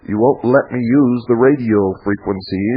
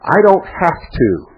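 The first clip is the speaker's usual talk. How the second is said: dismissive quote; 8 semitones higher, slower than usual. Retold or imitated.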